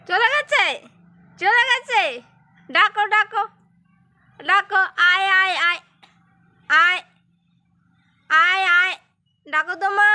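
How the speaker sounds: loud, high call across the field. Real, not acted. Calling a goat outdoors.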